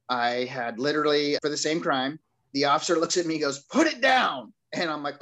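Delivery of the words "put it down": high, louder mock command; retold police order. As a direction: act out an officer ordering him firmly. Officer's retold order at dropped bottle.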